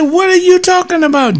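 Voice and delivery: high, incredulous question; retold outrage. Pastor retelling his shocked answer to the deacon, high and incredulous. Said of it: "I said".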